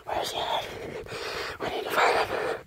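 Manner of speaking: whisper. Acted. Hiding, breathless after running.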